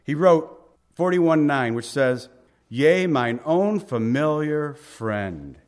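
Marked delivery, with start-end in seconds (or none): 2.7-5.6 slow reading that weights friend; stress on friend. Shown as a demonstration. Preacher stressing friend to the congregation. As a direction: lean on the word friend, slow. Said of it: "And I stress that word friend".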